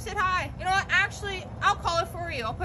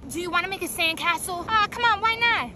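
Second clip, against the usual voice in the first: whiny pleading; 3 semitones higher, 5 dB louder than usual. Acted. Begging friend for sandcastle.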